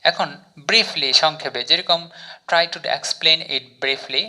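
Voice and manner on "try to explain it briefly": very slow, word by word English; slow example sentence. Shown as a demonstration. Teacher reads example sentence to learners, very slowly. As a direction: spell out each word of the model sentence. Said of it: "sentence তৈরি করলাম".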